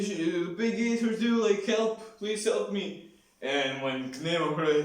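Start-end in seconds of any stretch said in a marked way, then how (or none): 0.0-3.1 high, louder, panicked pleading; a bandit begging in a frenzy after losing his friends. Retold or imitated. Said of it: "and he's like".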